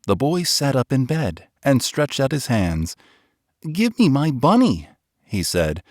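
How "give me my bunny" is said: put-on a child reaching out, begging for his bunny; pleading boy. A narrator's reading. Boy pleading with Nana at bedtime.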